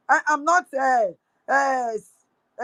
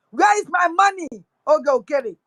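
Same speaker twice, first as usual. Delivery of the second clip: angry demand. Real, not acted. Demanding money from the minister.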